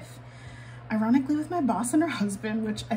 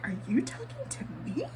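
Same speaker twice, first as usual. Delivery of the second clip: confused; 4 semitones higher, 5 dB quieter than usual. Retold or imitated. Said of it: "one of those moments where I'm like".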